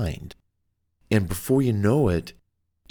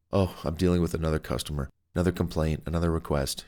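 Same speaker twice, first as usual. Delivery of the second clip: fast, softer and lower, worn-out rattle; weary phone agent; 5 semitones lower, 4 dB quieter, faster than usual. Retold or imitated. A tired agent complaining about customers, fast and low. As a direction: rattle it off like they've had enough.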